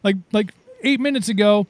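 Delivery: playfully outraged at the cousin's man voice; mock shock.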